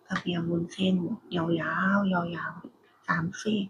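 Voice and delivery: hushed whisper, slow and soft; quiet at night. Real, not acted. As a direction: whisper it so no one wakes. Quiet mukbang, voice drops to whisper.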